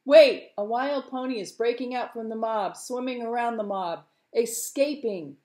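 sudden loud cry, then high excited report; excited lookout. Acted. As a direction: call out the breakaway as it happens. Fisherman calls out the breakaway.

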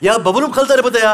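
weak attempt at calling out; lying-down shout. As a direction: shout it feebly while lying down. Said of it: "yatık bağırıyorsun".

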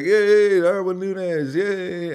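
high, loud cheering yay; mock cheering. Fan reenacting the goal celebration, high cheery yay. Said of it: "we're busy celebrating".

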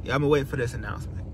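fast teasing whisper; hushed secret-keeper whisper. Acted. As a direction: breathe it like a secret. Teasing the big announcement.

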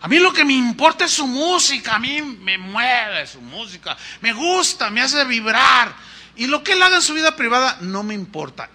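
mock fan gushing. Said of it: "dicen los del mundo".

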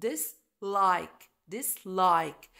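dislike with like stressed, dis light. Shown as a demonstration. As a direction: hit like in dislike. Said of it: "ال stress على like".

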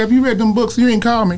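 loud, high-pitched impatient demand; retold nagging. Mentor checking on unread books, nagging loudly.

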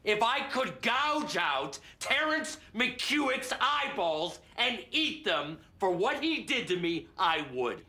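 slow, emphatic start, dropping at the end; vengeful rant. Acted. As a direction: savour each word of an imagined revenge. Vengeful confession of hatred for betrayers.

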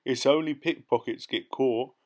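high and loud, insulted at the very idea; scoff, deeply offended, settling down toward the end; disgusted outrage. A narrator's reading.

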